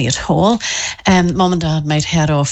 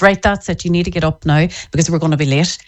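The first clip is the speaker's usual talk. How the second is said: no-nonsense parent; faster than usual. Retold or imitated. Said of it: "you have your no nonsense".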